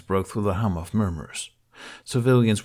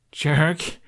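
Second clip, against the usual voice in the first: playful yell; 7 semitones higher, 4 dB louder than usual. A narrator's reading. Hiccup yelps at dragon.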